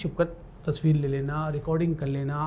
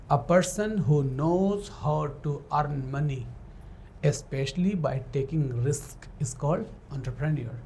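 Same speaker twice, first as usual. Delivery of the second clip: slow dictation; much slower than usual. Shown as a demonstration. Teacher dictating a definition.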